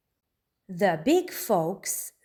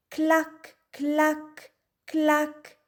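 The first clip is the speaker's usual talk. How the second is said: high, clipped hen clucks; high chicken clucking; 8 semitones higher, much slower than usual. Acted. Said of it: "says the old red hen".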